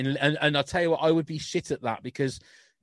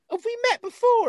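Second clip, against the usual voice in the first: much higher, louder, astonished; surprised question; 6 dB louder than usual. Retold or imitated. Comedian amazed at a dad in the crowd, high and excited. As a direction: act amazed to meet him. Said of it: "she went".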